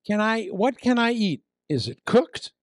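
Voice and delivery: high worried tourist voice; anxious tourist. Retold or imitated. Preacher imitating a nervous tourist, high and worried. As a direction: fret over the food like a nervous traveller. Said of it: "they say this".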